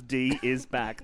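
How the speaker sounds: slow, weighty reading; dramatic slow announcement. Shown as a demonstration. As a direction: announce it slowly like a headline. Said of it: "That's what I wrote".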